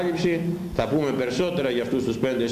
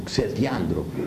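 slow condemning word; 4 semitones lower, slower than usual. Real, not acted. Preacher condemns, drawn out.

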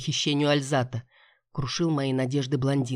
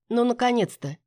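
grumbling; 6 semitones higher than usual. A narrator's reading. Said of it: "проворчала я".

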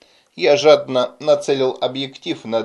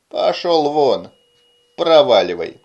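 злобно гонит; 4 dB louder than usual. Acted. Прогоняет инопланетянина.

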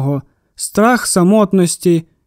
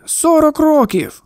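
higher pitch, slow, hammed-up lament; theatrical sigh; 7 semitones higher, slower than usual. A narrator's reading. Shopkeeper complains to the boy about his wife, theatrical groan. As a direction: sigh it out like a stage martyr. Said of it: "театрально зітхнув".

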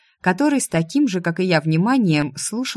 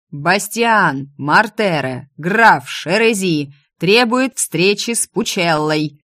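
loud demand; 5 dB louder, slower than usual. Acted. Pounding door, demanding.

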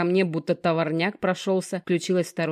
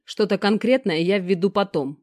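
rough growl; 2 semitones higher, 4 dB louder than usual. Acted. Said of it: "грубо прорычал друг".

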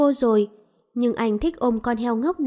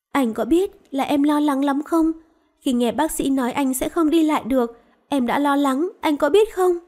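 a touch of crying, climbing higher on the last question; tearful; 3 semitones higher than usual. Acted. Woman tells the man she was worried, tearful and pleading. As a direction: voice rising as she pleads through tears. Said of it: "Cô vừa khóc vừa nói".

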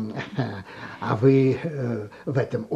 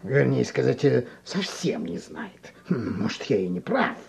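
calm gentle wise voice; 2 semitones lower, 4 dB quieter than usual. Acted. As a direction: gently voice a wise old teacher. Old teacher speaks softly.

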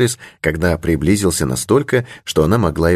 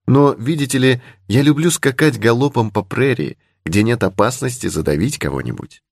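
put-on higher-pitched young heroine; lightly voiced young lady; 6 semitones higher than usual. Heroine boasting she would seek out Indians, lightly voiced young lady. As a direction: lightly raise the voice for a spirited girl.

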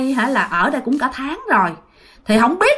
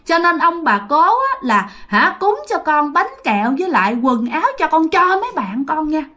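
put-on higher, eager childlike voice; a delighted little kid asking for treats; naive child voice; 3 semitones higher than usual. Ghost child thanking great-grandparents, high and eager. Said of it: "giọng của chú ngô nghê như một đứa con nít".

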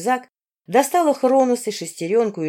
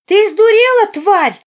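much higher, much louder shriek; a furious girl bursting in yelling; outraged yell; 14 semitones higher, 11 dB louder, slower than usual. A narrator's reading. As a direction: scream it from above at the attacker. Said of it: "выкрикнул кто-то над нами".

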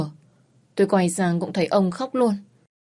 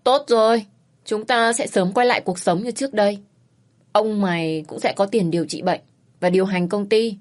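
a touch of relief and joy; delighted. Acted. Mother hearing daughter agree to marry, mildly delighted. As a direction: brighten up at the good news. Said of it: "thì mừng rỡ".

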